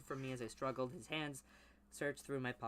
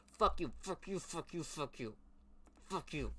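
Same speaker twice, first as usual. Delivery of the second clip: mock cursing; 4 semitones higher than usual. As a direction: parody his insults. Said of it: "No, he never said".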